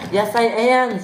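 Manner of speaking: loud, high defiant shout; stubborn shouted reply. Acted. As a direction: yell it back insisting. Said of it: "she shouted".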